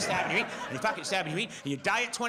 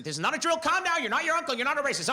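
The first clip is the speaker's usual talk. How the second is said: panicked inner voice; 5 semitones higher than usual. Retold or imitated. Panicking inner voice scolding himself mid-conversation. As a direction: talk yourself down in a rising panic. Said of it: "little voice in your head going".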